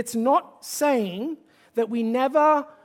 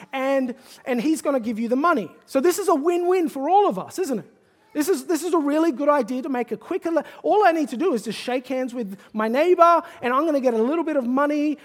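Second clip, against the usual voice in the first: lightly voiced, louder, keen young schemer selling a deal; eager scheming son; 3 dB louder than usual. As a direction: pitch it like a slick middleman who sees easy money.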